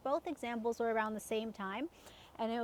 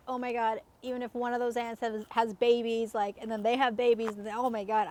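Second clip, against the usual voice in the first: spiraling panic; 3 dB louder than usual. Retold or imitated. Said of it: "My head's just spinning".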